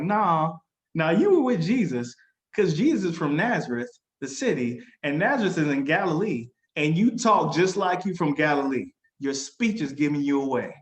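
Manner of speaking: insistent accusation. Retold or imitated. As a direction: play a bystander calling out his denial. Acted bystanders accusing Peter.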